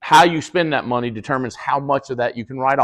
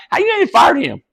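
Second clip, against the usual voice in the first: high, crying-with-laughter question; laughing disbelief; 4 dB louder than usual. Retold or imitated. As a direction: squeal it through laughter.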